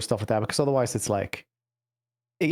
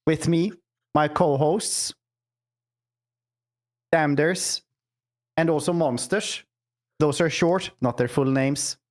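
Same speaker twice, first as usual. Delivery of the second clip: put-on Scandinavian accent. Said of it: "pure Scandinavian accent".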